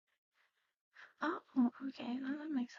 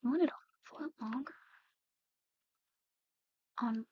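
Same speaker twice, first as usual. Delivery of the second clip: quick, incredulous check with a rising end; incredulous question. Acted. Artist checking a client's strange chin request, incredulous. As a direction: query it in mild disbelief, pitch jumping. Clerk baffled by odd request.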